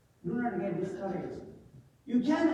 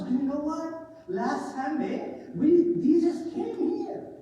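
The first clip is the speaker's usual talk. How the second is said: excited news; 5 semitones higher, 3 dB louder than usual. Acted. Disciples excitedly telling Thomas.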